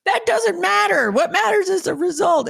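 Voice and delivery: lightly voiced boss waving off the objection; mock exec insistence. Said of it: "and he's like".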